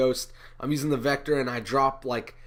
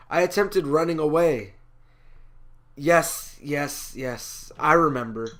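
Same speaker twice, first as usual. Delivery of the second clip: theatrical, measured monologue delivery; lightly acted prophet, emphatic and argumentative; Jonah addressing his listeners; 3 dB louder than usual. Jonah justifying his calling to an audience, declaimed. Second part of the Jonah soliloquy.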